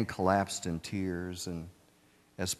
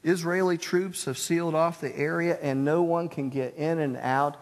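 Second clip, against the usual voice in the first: pleading; 6 semitones higher than usual. Retold or imitated. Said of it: "And he pleaded".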